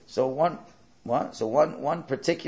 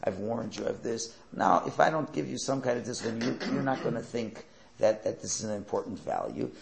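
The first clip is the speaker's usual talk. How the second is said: softer, even parental reasoning; calm; 4 semitones lower, 4 dB quieter than usual. Shown as a demonstration. Parent calmly disciplining a late child, softer. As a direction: explain the punishment patiently, no anger. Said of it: "You could say calmly".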